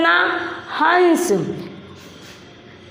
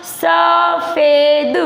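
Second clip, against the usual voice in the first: सफ़ेद chanted very slowly, sa-fe-d; syllable-by-syllable reading; 2 semitones higher, much slower than usual. Shown as a demonstration. Teacher reads along with pupils, सफ़ेद sounded out slowly. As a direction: draw out each syllable of सफ़ेद. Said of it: "आगे बेटा आपको पढ़ना".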